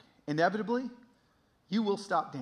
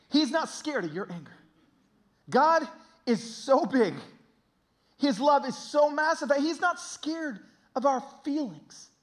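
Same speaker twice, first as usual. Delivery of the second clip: raised, emphatic sermon voice; impassioned preaching; 7 semitones higher, 6 dB louder than usual. Real, not acted. Preacher urging those angry at God, impassioned. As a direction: press the truth home to the congregation.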